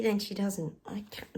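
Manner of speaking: hushed comment about the cat; whispered aside. Real, not acted. Vlogger to viewers about her cat, whispered. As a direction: whisper it under your breath.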